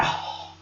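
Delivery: soft, voiceless sighed oh; retold wordless exhale; imitated sigh. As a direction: let out a faint breathy sigh. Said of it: "like that".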